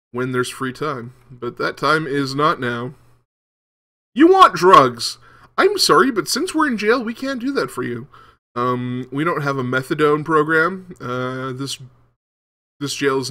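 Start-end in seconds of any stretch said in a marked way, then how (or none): 4.1-8.1 a put-on Scottish accent, pitched much higher and louder at the start; mock Scottish prison guard scoffing at a request for drugs; terrible Scottish accent. Scottish accent for an inmate's request for drugs. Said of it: "My terrible Scottish accent".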